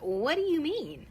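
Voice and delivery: mildly wary, stretched query; puzzled retort. Retold or imitated. Wife questions husband's remark, mildly wary slow question. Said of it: "And I'm like".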